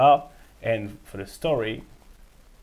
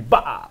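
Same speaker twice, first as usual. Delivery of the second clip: imitated slap sound; 7 dB louder than usual. Imitates a slap to his head.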